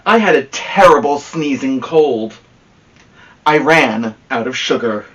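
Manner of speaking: a hint of a smug wolf telling his side; wolf narrator. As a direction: tell it as the misunderstood wolf, chummy and sure of himself.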